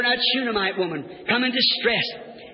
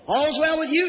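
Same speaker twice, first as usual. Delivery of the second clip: higher, rising question; the questioner's raised voice; prophet questioning; 4 semitones higher than usual. Acted. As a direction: lift it as a quick inquiry. Prophet's question against woman's answer.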